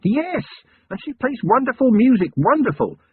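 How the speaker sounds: can barely contain himself; almost frantic. A narrator's reading. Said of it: "Vimes was almost frantic".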